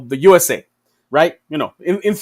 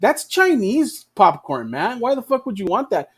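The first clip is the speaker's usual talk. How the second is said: higher, slow, pushy hawker's pitch; mock carnival barker selling American popcorn; hammed-up pushy salesman; 4 semitones higher, slower than usual. Playground story, USA stand lures kids, mock barker. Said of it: "And the U S A is like".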